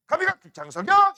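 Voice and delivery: 감이, 각, 흑 장석영 yelled high and loud, 장석영 rising; 장석영 blasted up at the end; overdone shout. Shown as a demonstration. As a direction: shout the chant far too hard. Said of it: "이거까지는 아니잖아".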